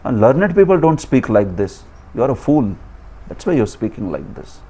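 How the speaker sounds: sober, understated reproof; very serious tone. Acted. Krishna telling Arjuna he is a fool, understated serious tone. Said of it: "in a very serious tone".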